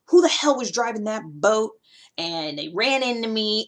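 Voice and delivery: mild acted indignation; annoyed outburst at a careless driver; mad. Imagined boat owner reacts to being hit, mad. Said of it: "And you're mad. You're like".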